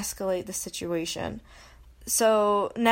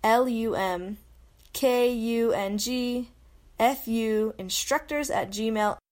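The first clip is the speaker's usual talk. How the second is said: letters spelled one by one with pauses; spelling out. Shown as a demonstration. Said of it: "So that's".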